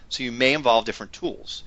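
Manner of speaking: choppy call audio cutting out; breaking up space radio. Real, not acted. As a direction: voice dropping out on a bad connection. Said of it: "You're breaking up".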